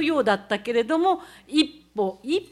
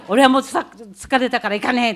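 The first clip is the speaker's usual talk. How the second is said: grumbling student; 6 dB louder than usual. Retold or imitated. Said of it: "男子の生徒たちが言ってる声".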